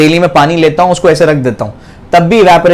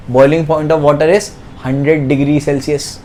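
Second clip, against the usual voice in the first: slow dictation; 4 dB quieter, much slower than usual. Shown as a demonstration. Teacher dictates a fact.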